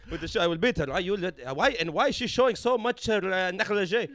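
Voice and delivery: loud, jokey mock Arab accent. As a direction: play the macho Arab uncle, laughing. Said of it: "with an Arab accent".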